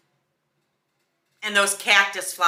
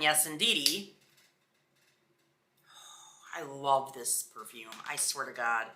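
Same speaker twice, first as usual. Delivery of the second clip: dreamy sigh; 8 semitones lower, 13 dB quieter than usual. Real, not acted. Savoring perfume, soft.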